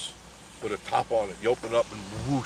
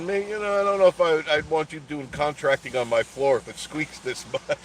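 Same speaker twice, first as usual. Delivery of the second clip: laughing tease; 5 semitones higher than usual. Retold or imitated. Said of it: "I said".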